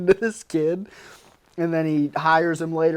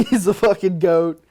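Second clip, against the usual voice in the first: louder, pumped-up hero worship; fired up; 4 semitones higher, 5 dB louder than usual. Retold or imitated. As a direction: hype it up like a fan leaving the cinema. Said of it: "you get fired up".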